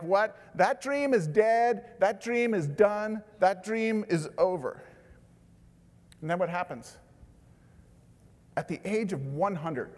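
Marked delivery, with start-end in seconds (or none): 0.0-4.8 loud, high, slow disbelieving scoff; scoffing Sarah. Retold or imitated. Sarah scoffing at God's promise, loud slow disbelief. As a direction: spell out each word as if the dream is dead. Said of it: "Sarah's laughing at the idea".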